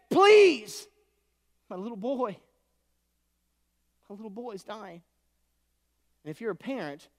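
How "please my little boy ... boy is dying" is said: begging, fading. Acted. Father on his knees begging Jesus, cry fading to softness. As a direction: start with a cry, end almost a breath. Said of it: "He's down on his hands and knees begging".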